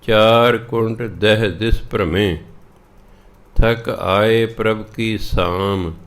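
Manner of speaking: slow, measured Gurbani reading; scripture recitation. Acted. Teacher reading the shabad to learners, slow recitation. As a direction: recite each line slowly, drawing out the words.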